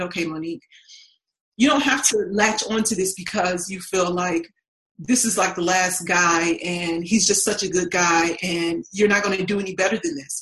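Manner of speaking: calm, reassuring self-talk; gentle inner voice. Retold or imitated. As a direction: soothe yourself like a kind friend would. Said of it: "something in my heart that said".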